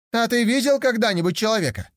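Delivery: put-on high, eager young tiger voice; a curious cub wondering aloud; naive young tiger.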